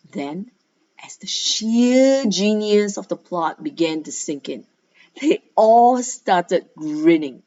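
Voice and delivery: lively read-aloud of a school story. A narrator's reading. Teacher reading a story to her pupils, lively narration. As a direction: read it to the class with energy.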